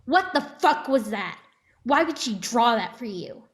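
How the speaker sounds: furious mother confronting; mother snaps at Sam; angry. Acted.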